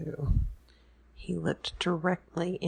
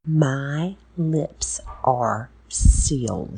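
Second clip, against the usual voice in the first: taunting; 10 dB louder, much slower than usual. Acted. Taunting prisoner.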